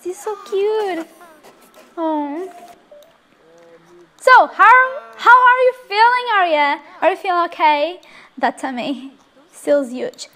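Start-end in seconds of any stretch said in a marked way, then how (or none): 4.2-8.0 excited asking. Real, not acted. Asks the new mother.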